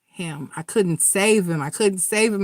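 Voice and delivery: mournful retelling of a broken doctor; grieving, breaking. Retold or imitated. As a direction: quote his despair as it slips away. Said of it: "He said".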